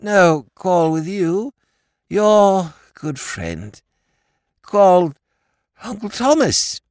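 high, slow, emphatic toff voice; a dim, friendly lord pleading his case; high and loud, slow clipped phrases; silly-ass lord. A narrator's reading. Lord Drever's voice.

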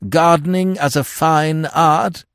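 put-on high-pitched, dithering old lord; absent-minded lord. Lord asking Connie about his mislaid book, absent-minded. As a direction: play a vague lord, pitched well up.

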